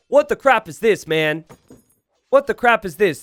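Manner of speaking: incredulous, can't make sense of it; baffled disbelief. Real, not acted. Caster baffled by the monk and relic, loud disbelief.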